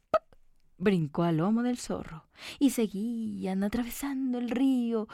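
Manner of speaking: usual speaking voice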